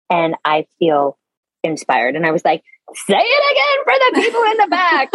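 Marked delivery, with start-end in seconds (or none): 2.9-5.1 high, excited shout of agreement; gleeful cheer. Retold or imitated. Woman cheering on a friend's idea, high and excited. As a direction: cheer it like a fan in the crowd.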